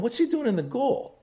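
panicked surprise at the goal; alarmed dad. Retold or imitated. Dad watching practice, alarmed. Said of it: "And I'm going".

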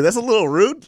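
mock exclaim. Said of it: "I was like".

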